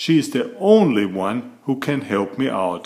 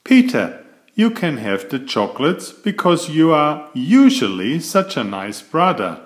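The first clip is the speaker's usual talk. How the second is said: sweetly; 3 semitones higher than usual. Acted. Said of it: "I said sweetly".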